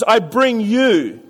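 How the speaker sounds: very slow, stress on bring; slow deliberate reading. Shown as a demonstration. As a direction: spell it out word by word. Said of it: "the next three words is".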